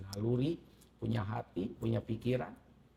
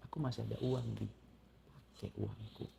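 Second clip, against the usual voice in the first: gentle offer; 3 semitones lower, 10 dB quieter than usual. Retold or imitated. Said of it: "dia tawarkan".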